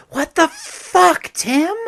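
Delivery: screamed high and loud, fully enraged; furious shout. Acted. Sarah screaming at Tim after the popcorn, furious shout. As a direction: explode at him at the top of her lungs.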